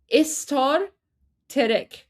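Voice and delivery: istar terek with a vowel slipped into each start cluster; Persian pronunciation. Shown as a demonstration. Explaining Persian pronunciation to viewers, careful vowel-split. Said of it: "it would be pronounced".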